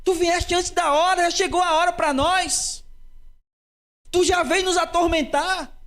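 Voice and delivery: fearful. Shown as a demonstration. Demon fearing Jesus came before the time, speaking fearfully. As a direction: voice the demon cowering before its judge. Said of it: "É uma entonação de medo".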